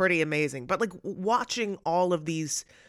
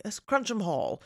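Cruncham in an English accent, pitched up; 6 semitones higher than usual. Shown as a demonstration. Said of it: "if I just say it in an English accent".

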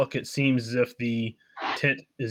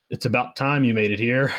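lightly voiced character, louder greeting; a hint of an impatient figure, louder than narration; Randon figure, impatient; 7 dB louder, faster than usual.

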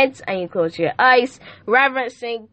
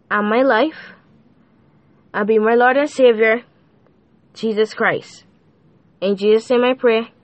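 prayer. Acted. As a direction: lead the listener in a sincere repeat-after-me prayer. Leads a salvation prayer.

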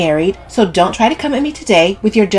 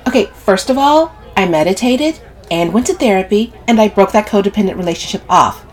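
higher, louder defensive retort; irritated, emphatic rebuttal; snapping; 5 semitones higher, 6 dB louder than usual. A narrator's reading. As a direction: snap back in self-defence. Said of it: "Sylvie snaps".

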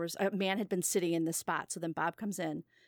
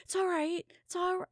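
mock soothing; 10 semitones higher, 3 dB louder than usual. Angry man now soothing crier, voiced.

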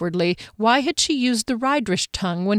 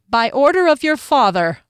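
stern verdict; 6 semitones higher, 6 dB louder than usual. A narrator's reading. Guard's final verdict.

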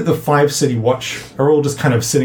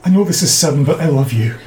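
slightly raised, eager character voice; a touch of sudden infatuation; enthusiastic declaration; 2 semitones higher than usual. Acted. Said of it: "he grabs it enthusiastically".

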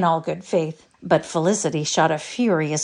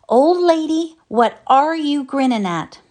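higher, louder cross snap; cross old man; 9 semitones higher, 6 dB louder than usual. A narrator's reading. Old husband crossly asks his smiling wife, cross. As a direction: grumble at her like a fed-up husband. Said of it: "he said very crossly".

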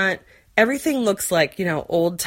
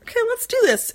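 psyched-up self-talk; faster than usual. Retold or imitated. Psyching herself up, quoted.

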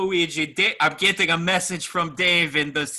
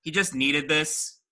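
spooky ghost; 3 semitones lower than usual. Acted. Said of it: "I'm the ghost of vapes yet to come".

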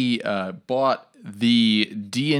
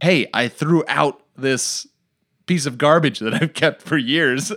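acting out excitement; 4 semitones higher than usual. Husband telling wife about his clear-out, acted excitement. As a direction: proudly announce it with mild excitement. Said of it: "I'll get really excited".

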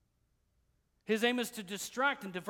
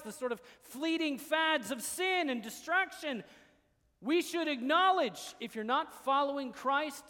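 raised, emphatic sermon delivery; forceful preaching; 3 semitones higher, 5 dB louder than usual. Real, not acted. Preacher warning a congregation about worldly influence, forceful preaching. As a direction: press each phrase home to the congregation.

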